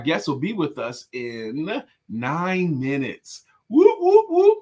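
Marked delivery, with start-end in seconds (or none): 3.7-4.6 high, loud celebratory whoop; excited whoops. Real, not acted. Cheering the guest coming in nine minutes, loud whoops. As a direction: cheer it out like a hype man.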